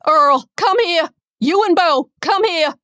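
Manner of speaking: insistent full-voiced shouting; yelling. A narrator's reading. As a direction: yell urgently for help across the house. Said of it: "Aunt Raylene was yelling".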